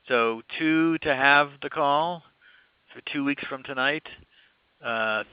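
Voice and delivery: slow, spelling out each option; slow, deliberate. Shown as a demonstration. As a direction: read the choices slowly and clearly. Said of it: "please vote again".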